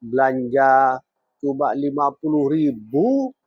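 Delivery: acted angry wife telling off her husband; harsh scolding wife. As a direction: complain sharply, building to a high, indignant dismissal. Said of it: "berkata kasar kepada suaminya".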